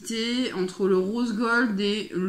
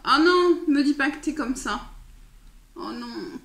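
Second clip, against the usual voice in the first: dismayed; 5 semitones higher than usual. Real, not acted. New liner won't open right.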